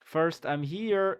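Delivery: lightly imitating the French guy, slow; slow mock French delivery. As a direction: drag it out like the French guy in the video. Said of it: "repeating the video's French line".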